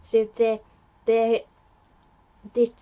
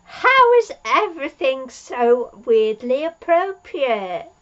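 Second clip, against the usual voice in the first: amazed exclamation; 3 semitones higher, 7 dB louder than usual. Real, not acted. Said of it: "marvelling aloud".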